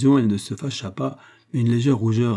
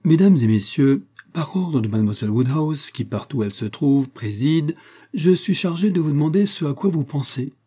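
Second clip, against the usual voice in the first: lightly raised herald's call to the company; mock announcement; 4 semitones higher than usual. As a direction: announce it with playful pomp. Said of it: "Je vais m'y prendre mieux". (annonce mi-solennelle, voix peu forcée)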